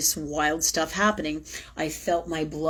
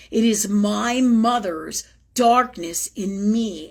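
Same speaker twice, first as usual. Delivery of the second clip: impassioned confession; 4 semitones higher, 4 dB louder than usual. Real, not acted. Emotional confession building.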